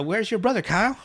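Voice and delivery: high, scolding father; father's voice. Retold or imitated. Boy mimicking his father scolding him, high and nagging. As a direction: nag like an angry dad. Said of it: "he starts doing his father's voice".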